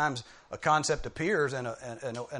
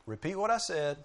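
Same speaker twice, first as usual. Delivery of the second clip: higher, firm parental commands; insistent parent, loud on the key commands; parent to small children; 4 semitones higher, 5 dB louder than usual. Acted. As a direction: act a parent demanding a child's attention. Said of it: "say to your small children".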